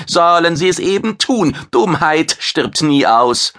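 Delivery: a vain chef bragging about his fame; proud alien chef. Acted. Maitre defends his pride.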